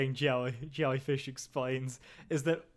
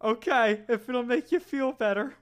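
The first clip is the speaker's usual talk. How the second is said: manager voice; 6 semitones higher than usual. Acted. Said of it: "act it out here".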